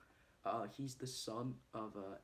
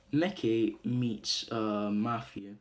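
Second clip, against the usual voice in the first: announced scene; 14 dB louder, much slower than usual. Shown as a demonstration.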